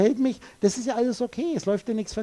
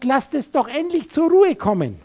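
mock prayer, raised and louder; desperate prayer; 4 semitones higher, 5 dB louder than usual. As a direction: plead to God at a higher pitch. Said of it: "betet zu Gott".

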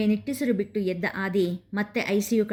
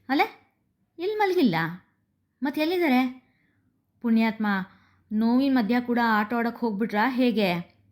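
surprised; 3 semitones higher than usual. Acted. Mother finding her husband's room empty, startled. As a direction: jump up in pitch, caught off guard.

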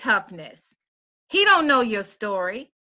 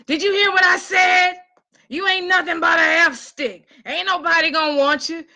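abusive ex; 4 semitones higher than usual. Retold or imitated. The ex berating her during a call, angry. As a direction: tear her down with contempt.

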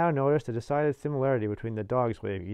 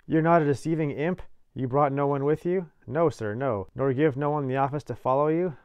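louder, higher, sharply questioning; suspicious convict; 4 semitones higher, 6 dB louder than usual. A narrator's reading. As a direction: interrogate the boy, suddenly distrustful. Convict suddenly interrogates boy.

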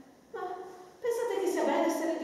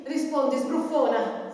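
sharp, louder scolding; scolding demand; 5 dB louder, slower than usual. Acted. Old nurse scolding her stubborn girl to answer, sharp and loud.

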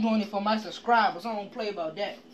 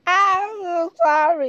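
laughing apology; 9 semitones higher, 8 dB louder, slower than usual. Real, not acted.

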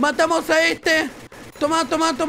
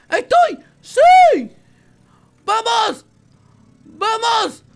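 high triumphant yells; excited cheering; 9 semitones higher, 8 dB louder, much slower than usual. Real, not acted. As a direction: cheer loudly, thrilled. Takes off in the plane.

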